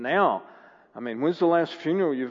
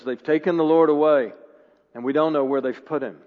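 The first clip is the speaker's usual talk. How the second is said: loud, urgent cry of bad news; urgent report; 6 dB louder than usual. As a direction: announce it urgently, a little raised. Mary runs to tell disciples.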